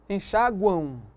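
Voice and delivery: "Enxáguam" drawn out with a nasal U glide at the end; M sounded as U. Shown as a demonstration. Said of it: "o M tem som de U". ("Enxáguam" com som de U no final)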